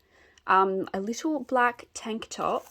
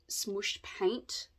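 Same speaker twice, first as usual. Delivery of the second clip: whisper; 8 dB quieter than usual. Real, not acted. Pointing out a defect.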